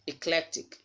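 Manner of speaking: weak first vowel, stressed "KLEK" in "eclectic"; correct pronunciation. Shown as a demonstration. Teacher modelling the word, correct pronunciation. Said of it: "That letter E is not stressed".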